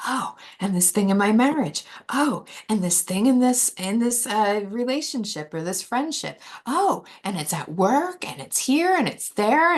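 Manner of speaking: high, loud and rushed, piling on worries; a mock panic as everything goes wrong; frantic spiraling thoughts. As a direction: rattle off one problem after another. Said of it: "we're like".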